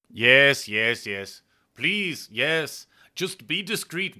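defeated Steinhardt pleading. Acted. Steinhardt reluctantly allowing his lover's plan, pleading and resigned. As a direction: give in anxiously, urging her to be careful.

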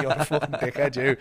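mock insult through laughter; retold laughing insult. Insurance guy laughing down the phone at Paul, mocking. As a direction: laugh while calling him an idiot. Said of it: "pissing himself down the phone laughing at me going".

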